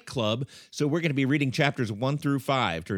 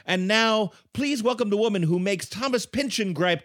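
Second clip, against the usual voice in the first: show announcer; 3 semitones higher than usual. Acted. Introduces himself and the host.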